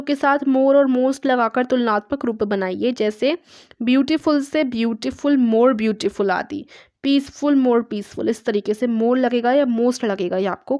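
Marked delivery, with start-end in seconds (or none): 4.6-6.3 slow demo. Shown as a demonstration. Teacher models comparative form.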